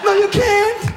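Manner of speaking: high, slow insulting shout; exasperated comic tirade; angry yell. Acted. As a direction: bark at the moron. Mocking the muffin believer.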